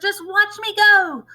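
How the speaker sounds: put-on high, loud, slow old-crone cry, half laughing; cackling grandma. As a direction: crow it out like a triumphant old witch. Voices Grandma.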